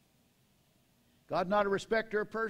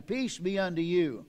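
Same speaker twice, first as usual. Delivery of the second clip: blessing. Shown as a demonstration. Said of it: "say it to the person".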